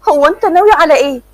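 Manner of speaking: put-on nervous stammer of a scared girl. A narrator's reading. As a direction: ask it with rising fear. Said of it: "مرام بخوف".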